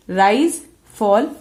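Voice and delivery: "Rise, fall" said with a lifting tune on each word; teacher demonstrating "Rise, fall" as a rising then falling tune. Shown as a demonstration. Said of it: "the rising and falling tone".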